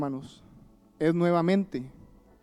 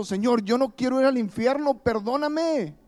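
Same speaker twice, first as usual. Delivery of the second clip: high pleading cry to the Lord, a bit louder; retold crying out; 5 semitones higher, 3 dB louder than usual. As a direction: cry out begging not to go to hell. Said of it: "pero gritando". (súplica gritada, aguda y algo más fuerte)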